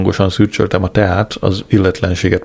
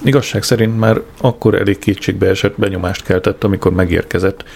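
ordinary delivery, nothing marked

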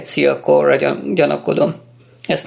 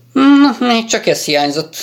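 exasperated sigh; 8 semitones higher, 3 dB louder than usual. Acted. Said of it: "sóhajtott Rader".

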